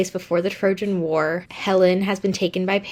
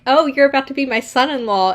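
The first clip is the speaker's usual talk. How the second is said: higher, louder, delighted mother; mock cheery mom; 7 semitones higher, 5 dB louder than usual. Mother greeting the groom-to-be, gushing. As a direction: gush like a proud mother. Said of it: "Clytemnestra is like".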